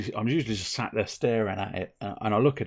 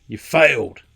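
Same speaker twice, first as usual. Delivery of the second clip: slow, louder, gravelly vigilante growl; grave hero line; 10 dB louder than usual. Acted. Streamer ending the recap with a mock vigilante verdict, slow. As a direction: deliver it like a hooded avenger's verdict.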